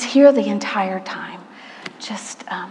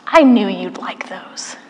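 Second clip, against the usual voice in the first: soft whispered reply, slow; God's whisper; 4 semitones lower, 4 dB quieter, slower than usual. Retold or imitated. God answering her thanks for clouds, in a slow whisper. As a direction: breathe it as an intimate secret.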